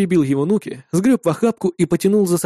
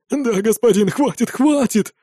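anxious mumbling; 7 semitones higher, slower than usual. A narrator's reading. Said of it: "забормотал мужик".

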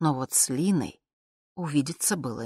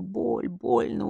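squeaky whine; 4 semitones higher, much slower than usual. Acted. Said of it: "визгливым скрипичным".

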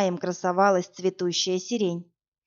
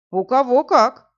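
a mild, obliging captain's voice, a bit louder; agreeable captain; 3 semitones higher, 6 dB louder than usual. A narrator's reading. Captain agreeably answering the woman, lightly voiced. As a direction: go along with her, easygoing. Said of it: "покладисто проговорил капитан".

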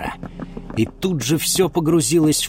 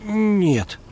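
meek; 9 semitones higher than usual. Acted. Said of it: "кротко сказал Ульм".

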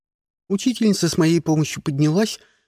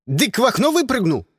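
put-on excited kid; 8 semitones higher than usual. A narrator's reading. Kid repeats news eagerly.

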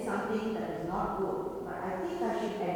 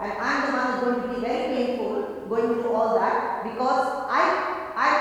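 ordinary talk, nothing marked

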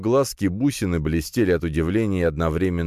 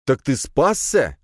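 higher, slow, emphatic question; surprised exclamation; 9 semitones higher, 4 dB louder, slower than usual. A narrator's reading. Hero finding his ally survived, surprised exclamation. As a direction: exclaim it, stretched with disbelief. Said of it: "воскликнул я".

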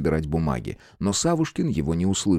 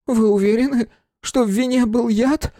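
высокий медленный испуганный лепет; пролепечи в испуге, тонко; испуганно лепеча; 4 dB louder than usual. Acted. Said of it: "пролепетал он". (испуганный фамильяр лепечет, медленно и высоко)

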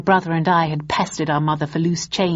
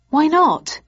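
indignant surprise; 10 semitones higher, 5 dB louder than usual. Acted. Student protests refusal.

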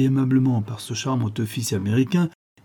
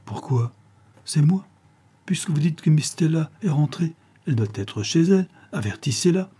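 higher, pressing phone demand; insistent; 5 semitones higher than usual. Acted. Harry insisting to the hotel clerk, higher and pressing.

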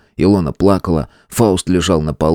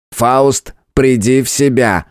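booming; 5 semitones higher, slower than usual. A narrator's reading. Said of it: "громыхал Регулус".

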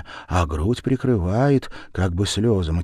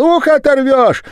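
очень высоко и громко; завизжать от боли; визгливый крик; 10 dB louder than usual. A narrator's reading. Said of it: "Верява закричала". (Верява визжит, которую держат за ухо)

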